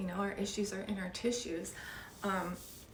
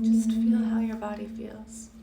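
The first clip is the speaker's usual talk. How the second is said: whispering; 6 dB louder than usual. Acted. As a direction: breathe the words out gently. Whispered meditation cue.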